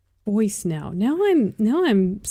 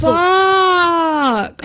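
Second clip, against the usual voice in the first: sudden loud curse of dismay; shocked shout; 4 semitones higher, 6 dB louder than usual. Real, not acted. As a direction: blurt it out, stunned and upset. Shocked outburst at bad news.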